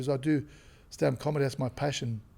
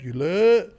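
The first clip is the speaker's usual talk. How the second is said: upset Yule; 4 semitones higher, 8 dB louder than usual. Retold or imitated. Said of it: "if you're getting upset".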